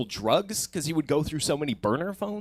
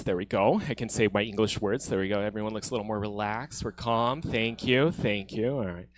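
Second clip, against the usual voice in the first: lightly voiced white guy, lower and softer; lowered, calm white-guy voice, lightly done; 4 semitones lower, 4 dB quieter than usual. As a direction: put on a mild white-guy voice. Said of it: "my white voice".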